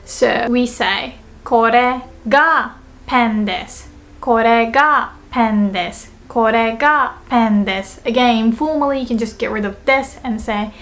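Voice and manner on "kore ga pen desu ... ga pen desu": slow, with weight on "Kore ga"; teacher's slow model, "Kore ga" emphasized; stress on Kore ga. Shown as a demonstration. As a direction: lean on "Kore ga", then let "pen desu" settle. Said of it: "put emphasis on the word this".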